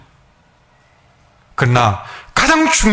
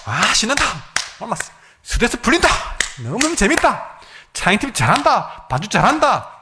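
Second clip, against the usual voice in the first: lightly imitating a thrilled worshipper, higher pitch; mock delight; 3 semitones higher, 3 dB quieter than usual. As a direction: toss off little exclamations of self-pleased fun. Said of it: "그냥 자기만 즐거운 거예요".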